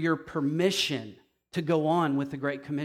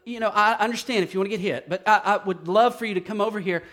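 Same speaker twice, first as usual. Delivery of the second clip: meek pleading parent; 2 semitones higher than usual. Pretend. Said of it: "I'm not gonna go out there and go".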